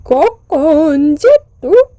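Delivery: ordinary delivery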